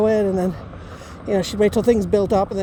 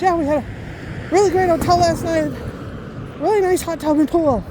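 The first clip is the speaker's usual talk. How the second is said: lightly imitated dad, higher pitch; dad on the phone; 6 semitones higher than usual. Dad telling daughter about the hotel, lightly imitated. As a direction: report as dad, upbeat and higher. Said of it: "He goes".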